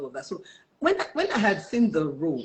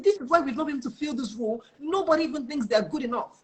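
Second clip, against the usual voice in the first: high-pitched exasperated retold rant; angry recruiter; 5 semitones higher than usual. Recruiter complains nobody thinks they are good enough, acted exasperated. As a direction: keep venting as a frustrated recruiter. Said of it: "so angry with me".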